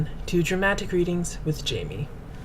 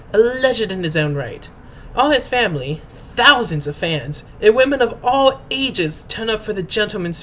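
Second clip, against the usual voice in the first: grand, pompous storyteller's read; mock-dramatic reading. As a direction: read it like an epic saga, tongue in cheek. Mock-dramatic reading of fan headcanon.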